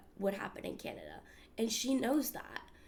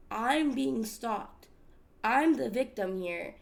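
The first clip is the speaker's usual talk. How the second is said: louder and slow, insisting she is the victim; retold indignant outburst; 6 dB louder, slower than usual. To the vice principal, a retold louder, slower protest. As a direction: hammer home each word, mock indignant.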